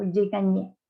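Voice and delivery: "je gagnais" with GN said as ny; "je gagnais" with Spanish Ñ in the middle. Shown as a demonstration. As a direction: say "je gagnais" as ga-nyay. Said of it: "da el sonido de la Ñ".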